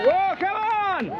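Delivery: high cheer to the crowd. Real, not acted. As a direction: call out to rouse the crowd.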